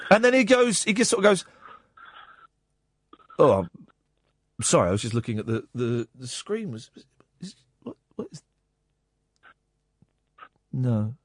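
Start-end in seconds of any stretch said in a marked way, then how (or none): 3.4-11.1 imitating a dazed host. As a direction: drift off like a tripping DJ. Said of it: "there's really long pauses".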